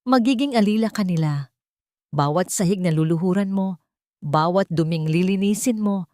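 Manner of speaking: lightly voiced matriarch pronouncing a life sentence; a hint of cold cruelty, rising on the last centavo; cruel verdict. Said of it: "ang kanyang boses ay tila isang hatol".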